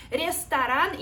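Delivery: ресторан said with a single t, ends ресторан; ресторан, stressed on the last syllable; no second T. Shown as a demonstration. Teacher stresses ресторан without a double t. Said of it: "does not have a second T".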